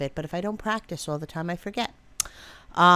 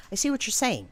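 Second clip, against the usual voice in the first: casual cover line; 4 semitones higher than usual. Shown as a demonstration. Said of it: "You see how I did that".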